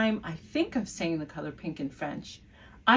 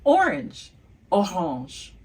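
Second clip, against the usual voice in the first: excited reveal; 4 dB louder, slower than usual. Shown as a demonstration. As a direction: announce orange with a triumphant lift. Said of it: "you've guessed it".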